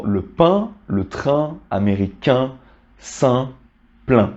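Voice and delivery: pain, train, américain, saint, plein with nasal vowel and silent n. Shown as a demonstration. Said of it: "ça devient une nasale".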